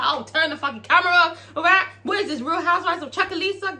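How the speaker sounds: high-pitched, acted telling-off; mock exasperation. Uncle Clifford orders the camera off, mock exasperated.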